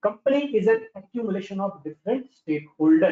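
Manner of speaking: very slow, every word spaced; slow dictation. Shown as a demonstration. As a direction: read the definition out slowly. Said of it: "बीएमबीएस की definition दे दी".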